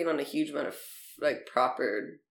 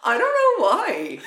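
giggling, higher and slower; laughing; 7 semitones higher, 3 dB louder, slower than usual. Real, not acted. Irish woman laughing about her own saying. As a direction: laugh it out, can't explain.

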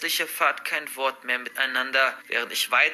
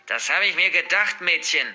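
malicious grandmother; 2 semitones higher, 3 dB louder than usual. Acted. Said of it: "wie sie boshaft lächelte".

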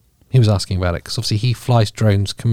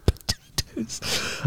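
mock Irish; 13 semitones higher, 11 dB quieter, much slower than usual. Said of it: "playing to some kind of stereotype".

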